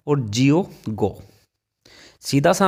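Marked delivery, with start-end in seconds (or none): 0.9-1.1 गो, slow, with a long pure ओ; गो धीरे, लंबा शुद्ध ओ; slow demo word. Shown as a demonstration. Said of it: "उसका उच्चारण ओ होगा". (गो धीमे और साफ़)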